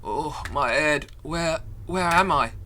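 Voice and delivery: slow, groggy character lines; dazed voice acting. Voicing a dazed girl waking after a blow, slow. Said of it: "I'm good at voice acting".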